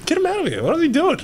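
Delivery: cracking up at the reporter; laughing disbelief. Real, not acted. Player laughing at the reporter's question, high and amused.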